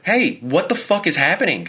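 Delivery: startled, high-pitched alarm at a voice in the dark; panicked. Retold or imitated. Boyfriend startled awake by his girlfriend, high panicked outburst. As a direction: blurt it out, scared and confused.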